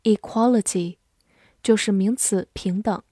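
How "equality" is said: equality with the stress on qual; e-QUAL-i-ty, second syllable stressed. Shown as a demonstration. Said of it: "重音放在了第二个音上".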